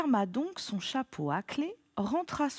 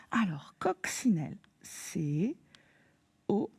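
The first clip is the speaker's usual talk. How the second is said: chuchoté; slower than usual. Shown as a demonstration. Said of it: "épellation du mot".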